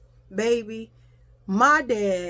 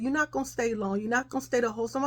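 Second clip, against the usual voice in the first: imitated reassurance; 2 semitones higher, 5 dB quieter, much faster than usual. Mother reassures hugged child.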